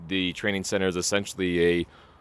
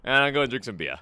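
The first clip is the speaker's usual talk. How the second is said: Boston Josh impression; 4 semitones higher than usual. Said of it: "I'm gonna do the Boston version".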